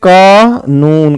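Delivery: कानून said slowly with the long ऊ stretched; drawn-out long u. Shown as a demonstration. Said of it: "कानून में बड़े ऊ की मात्रा आएगी". (कानून में ऊ को खींचकर बोलें)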